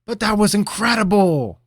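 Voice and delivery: high, loud and breathless with wonder; wide-eyed excitement. Acted. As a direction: blurt it out amazed. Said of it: "continued wide-eyed".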